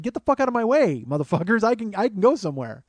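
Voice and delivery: high, exasperated outburst; pissed off. Acted. Stuck behind people the cab refused, pissed off. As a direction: protest like someone stuck in the queue. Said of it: "And I'm pissed".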